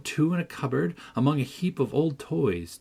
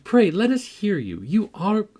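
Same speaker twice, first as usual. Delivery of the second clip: higher, louder teasing praise, slowing on "grown clever"; mocking exclamation; 6 semitones higher, 4 dB louder than usual. A narrator's reading. Catherine mocks Hareton's reading, higher and louder. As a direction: tease him as if impressed. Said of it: "I exclaimed".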